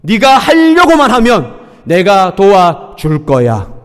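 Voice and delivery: encouraging voice of God. Acted. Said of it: "하나님은 달라요".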